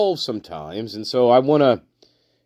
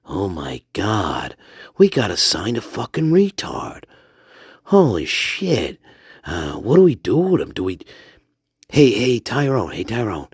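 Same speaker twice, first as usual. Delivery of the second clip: Stanley. Pretend. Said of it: "I remember Stanley saying".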